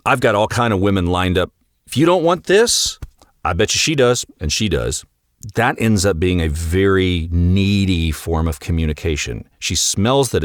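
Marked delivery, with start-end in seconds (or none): 0.1-5.0 fake alpha bravado. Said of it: "this performance of".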